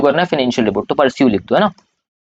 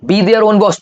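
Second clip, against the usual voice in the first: raised-voice classroom recitation; loud recitation drill; 4 semitones higher, much slower than usual. Shown as a demonstration. Teacher leading students to repeat after him, loud recitation. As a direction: call it out for the class to echo. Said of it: "चिल्ला चिल्ला के पढ़ो".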